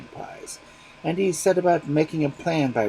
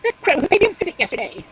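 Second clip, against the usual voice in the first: much higher and louder, a confident bird; bold magpie; 9 dB louder than usual. Acted. Magpie telling the fox who advised her, bold. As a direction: answer proudly.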